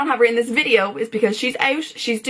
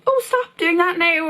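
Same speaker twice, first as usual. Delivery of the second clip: firm but hesitant; 7 semitones higher, slower than usual. Pretend. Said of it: "to tell people".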